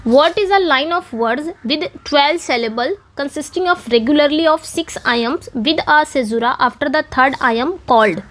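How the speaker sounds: reads the question very slowly, word by word; slow question reading. Shown as a demonstration. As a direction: spell the question out slowly for the class. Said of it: "reading out the quiz question". (प्रश्न को बहुत धीरे पढ़ना)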